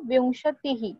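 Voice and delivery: विंशति ही ending in an audible echoed "hi"; visarga as "hi". Shown as a demonstration. Teacher modelling twenty for the class, echoed visarga. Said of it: "टी के बाद विसर्ग है".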